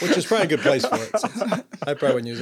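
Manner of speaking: fast, chuckling through the words; laughing it off as he talks. Real, not acted. Husband jokes the mixer is better with her, laughing.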